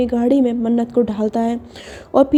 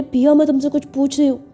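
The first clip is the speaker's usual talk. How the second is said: impatient demand; 3 semitones higher than usual. Acted. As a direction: push her to answer. Sakshi demanding answer.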